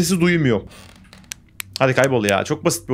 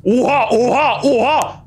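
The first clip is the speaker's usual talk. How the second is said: shocked; 8 semitones higher, much slower than usual. Real, not acted. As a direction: blurt out in shock. Shocked at battery drop.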